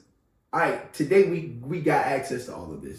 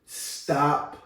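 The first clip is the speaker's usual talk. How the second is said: cool calm voice; 4 dB quieter, much slower than usual. Retold or imitated. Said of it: "in a very cool, calm voice".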